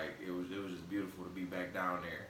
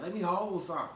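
imitating southern "hold"; 9 semitones higher, 4 dB louder than usual. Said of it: "y'all, like, be like".

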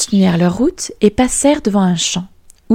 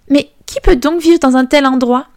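much higher, awed princess; amazed question; 7 semitones higher, 3 dB louder than usual. Acted. Princess asking the fiddler who rules the city, higher and amazed. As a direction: marvel at the city. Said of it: "questionna la princesse".

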